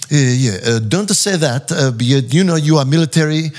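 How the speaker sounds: put-on breezy accented director voice; director impression. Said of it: "he's like".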